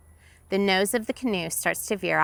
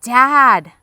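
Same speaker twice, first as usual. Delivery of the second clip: a higher, much louder shout for her father; loud call; 6 semitones higher, 12 dB louder than usual. Acted. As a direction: push the call out with all her breath. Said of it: "It comes out louder this time".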